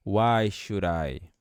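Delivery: "should I" said "shurai", D like a flapped R; should with a tapped R. Shown as a demonstration. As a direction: link "should I" so the D sounds like an R. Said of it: "esse D vai ficar com som de R". ("should I" com o D soando como R)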